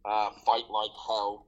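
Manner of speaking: put-on a slow, light stab at an American accent; slowly drawn-out mock American accent, barely there. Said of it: "sorry if that was my American accent".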